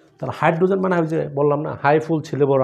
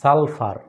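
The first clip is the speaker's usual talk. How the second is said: সালফার drawn out in two beats, সাল-ফার; an emphatic, stretched সালফার; syllable by syllable; 4 dB louder, much slower than usual. Shown as a demonstration. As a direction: sound out সালফার slowly and firmly. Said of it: "সালফারের syllable কয়টা".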